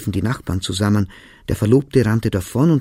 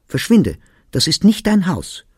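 high, raised voice, ordering him out; narrated shout, pitched up and forceful; angry shout; 8 semitones higher, 5 dB louder than usual. A narrator's reading. Woman throwing her fiancé out of the house, shouting. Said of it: "schrie sie ihn an".

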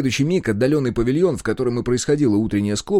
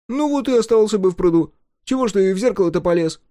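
higher, louder teasing jab; mocking retort; 10 semitones higher, 4 dB louder than usual. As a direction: needle him with a mocking higher voice.

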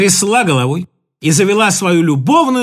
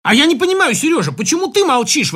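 higher, raised exclamation; exclaiming; 6 semitones higher than usual. Acted. Lyubov Sergeevna exclaiming at her silent husband. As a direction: cry it out in disbelief. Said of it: "воскликнула Любовь Сергеевна".

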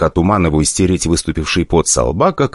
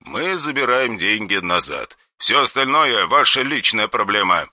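soft, cold menace; quiet threatening caller on the phone; dry harsh voice; 4 semitones higher, 6 dB quieter than usual. Acted. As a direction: threaten without raising the voice.

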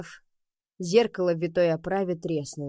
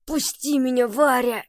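wheezing cry; 7 semitones higher, 4 dB louder than usual. A narrator's reading. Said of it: "прохрипел он".

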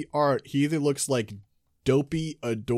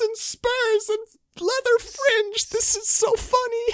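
laughing. Real, not acted. Laughing at cowboy armor.

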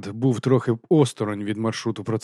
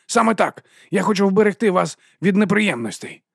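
high, loud, cold command; haughty dismissal; 8 semitones higher, 3 dB louder than usual. A narrator's reading. Vons taking Vimes's badge, high haughty tone. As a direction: order him off.

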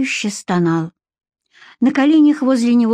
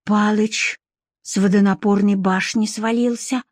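thoughtful. Acted. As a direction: repeat it pensively, pausing after the name. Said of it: "задумчиво повторила Варя".

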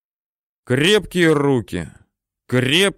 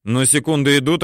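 ordinary delivery, nothing marked

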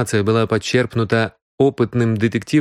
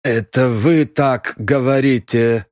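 unbothered, slow reply; phlegmatic; 3 semitones higher, slower than usual. Acted. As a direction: shrug it off calmly. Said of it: "флегматично ответил Хакар".

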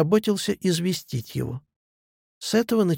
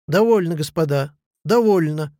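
normal talking voice

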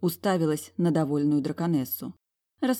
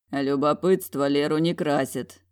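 ordinary delivery, nothing marked

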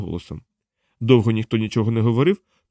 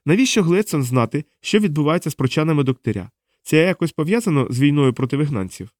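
lightly voiced, higher-pitched questioner; interrogating woman; 4 semitones higher than usual. Diana questions captive John about the council, probing. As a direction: press the captive for an answer.

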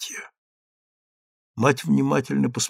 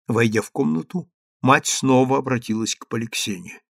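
ordinary delivery

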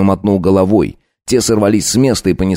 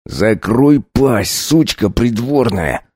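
hissed through teeth; 3 semitones higher, much slower than usual. Acted. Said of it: "процедил Сизый".

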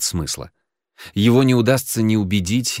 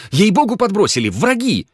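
much higher, louder panicked protest; frantic gabble; 11 semitones higher, 5 dB louder than usual. A narrator's reading. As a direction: rattle it off terrified. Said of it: "затараторил Генка".

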